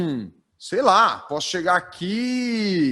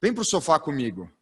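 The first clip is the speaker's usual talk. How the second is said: coaxing call to come sit close; a light, welcoming come-here call; inviting closeness; 2 semitones higher than usual. Shown as a demonstration. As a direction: draw the audience in, friendly and intimate. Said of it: "Olha a diferença".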